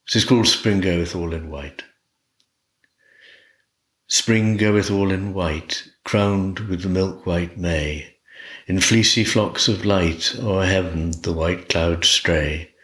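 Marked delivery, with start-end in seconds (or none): 4.1-12.7 unhurried recital easing down at line ends; poetry recitation. Acted. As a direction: read it as a short lyric, line by line. Recites second poem.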